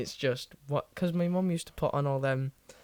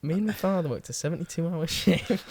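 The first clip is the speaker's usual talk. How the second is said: put-on Yorkshire accent; 4 semitones higher, 4 dB louder than usual. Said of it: "I have to go in that Yorkshire voice".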